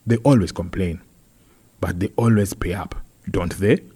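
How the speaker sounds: lightly voiced complaining councillor; a hint of an aggrieved official; earnest councillor. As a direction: report the grievance to the meeting, with emphasis. Voices councillor Wafula reporting.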